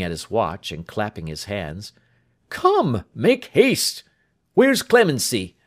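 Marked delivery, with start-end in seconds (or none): 2.5-5.6 high, loud urging; doctor calling for the maid; hurrying. Acted. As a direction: chivvy everyone along.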